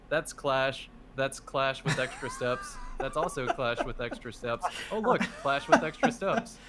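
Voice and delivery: flat, bored announcer read; monotone voice. Retold or imitated. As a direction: read it deadpan, no energy. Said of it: "reading it in a monotone voice".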